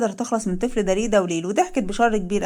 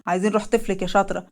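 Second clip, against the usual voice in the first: menacing thug; 3 semitones lower than usual. Acted. Intruder threatens pregnant woman.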